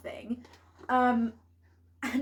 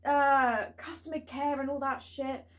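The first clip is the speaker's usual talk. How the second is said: raised, imitating an angry customer; half-hearted retold yell; mock shouting; 4 semitones higher, 4 dB louder than usual. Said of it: "he started shouting at me".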